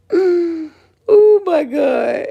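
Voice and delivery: high, slow, breathless laughing fits between words; crying with laughter, gasping out oh my God; helpless laughter. Real, not acted. Laughing at the rival's accusation to her viewers, helpless laughter.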